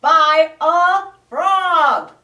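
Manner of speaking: loud, slow, gruff growl; growling bear. Acted. Grumpy bear scolds the little frog, growling. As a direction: grumble it, big and cross. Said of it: "he added".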